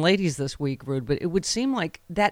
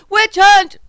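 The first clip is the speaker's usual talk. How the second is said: high-pitched mock shriek; mock outraged squeal; Trump; 12 dB louder than usual. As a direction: blast it out far higher and louder, as a caricature. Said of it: "by the time he gets to witch hunt at the end".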